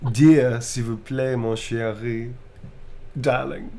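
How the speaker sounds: slow, tender French murmur; romantic French lover. Acted. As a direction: woo them in French. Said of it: "Romantic blushing type line".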